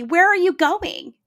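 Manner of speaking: high, drawn-out call; imitated yell. Pupil to teacher leaving for PE, mock yell. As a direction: call it out slowly like an upset child. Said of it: "he would yell to me".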